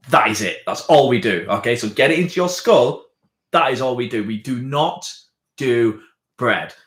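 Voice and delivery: firm, emphatic telling-off; acted exasperation, a touch of anger; mildly angry barman. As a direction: lay down the law, word by word. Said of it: "Just getting a bit angry".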